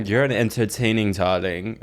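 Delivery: put-on stagey old movie star; old Hollywood voice. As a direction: purr it like a silver screen diva. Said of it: "Did that sound like old Hollywood?".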